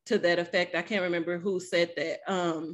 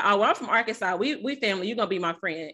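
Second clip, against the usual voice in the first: country Arkansas twang; Arkansas accent; faster than usual. Retold or imitated. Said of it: "I was like".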